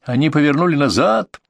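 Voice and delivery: high excited cry, held back in volume; strangled cry. A narrator's reading. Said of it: "услышал сдавленный, задышливый крик Ганса". (сдавленный, задышливый крик)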